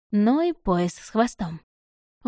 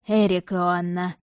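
gently correcting; slower than usual. Acted. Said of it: "мягко поправил меня собеседник".

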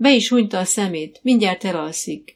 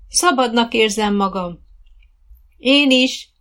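loud, higher, elated; joyful exclamation; 5 semitones higher, 6 dB louder than usual. A narrator's reading. Riders sharing joy while trotting, elated loud voice. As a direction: exclaim it with delight.

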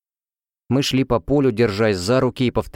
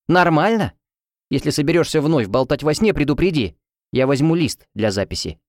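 a lightly raised, bossy roommate voice; 3 semitones higher than usual. Acted. Helena ordering her to start searching, bossy. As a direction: lay down the law like an irritated roommate.

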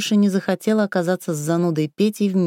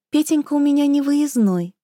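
squeaky wife voice; 7 semitones higher than usual. A narrator's reading. Raya speaks, high put-on voice.

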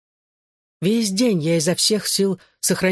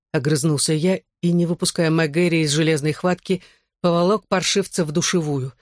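ordinary delivery, nothing marked

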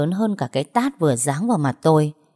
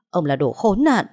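loud bitter insult, still held back; mother cursing the kidnapper; angry insult; 2 semitones higher, 4 dB louder than usual. Acted. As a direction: spit out "đồ khốn nạn" with anger. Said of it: "Mẹ anh thấy vậy mới hét lên".

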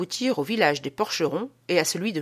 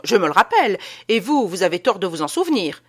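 a louder, curt dry reply; 6 dB louder than usual. Acted. Théophraste shuts Petitot down under the umbrella, curt and louder. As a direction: cut him off dryly. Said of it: "fit Théophraste d'un ton sec".

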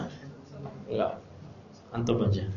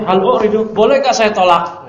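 asking the sheikh; 6 semitones higher, 5 dB louder than usual. Retold or imitated. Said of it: "Kata saya".

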